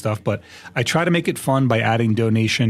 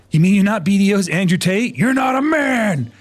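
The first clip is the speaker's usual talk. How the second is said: mocking macho voice; 9 semitones higher, 3 dB louder than usual. Mock quote of chat.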